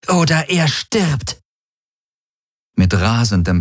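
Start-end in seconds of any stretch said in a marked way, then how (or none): 0.1-1.4 high, slow, forceful ultimatum; thundering threat. A narrator's reading. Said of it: "donnerte Ylana".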